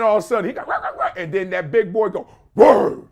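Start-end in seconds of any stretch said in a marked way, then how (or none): 2.5-3.1 put-on startled big kid. Big boy reacting.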